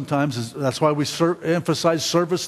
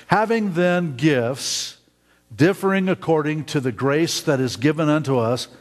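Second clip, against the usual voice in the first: scripture reading. Acted. Reads scripture aloud.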